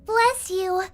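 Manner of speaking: nerdy voice. Acted. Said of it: "Nerdy voice".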